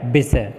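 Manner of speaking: विषय as "bisay"; incorrect pronunciation. Shown as a demonstration. Teacher shows the impure form, विषय as "bisay". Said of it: "यह अशुद्ध".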